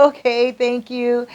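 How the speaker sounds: imitating friendly, drawn-out politeness; kind. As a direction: act out a kind customer's thanks. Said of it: "Sandro's being kind to her".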